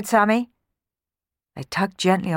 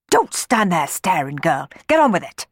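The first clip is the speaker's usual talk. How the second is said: stern scolding; 2 semitones higher, 3 dB louder than usual. Acted. Housekeeper scolding the maid, loud stern snap. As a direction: scold the girl sharply. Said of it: "she barked".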